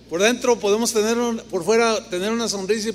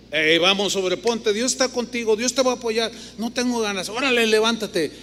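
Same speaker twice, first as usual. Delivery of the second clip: ordering his soul; 3 semitones higher than usual. Retold or imitated. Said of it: "El ordenarle a tu alma".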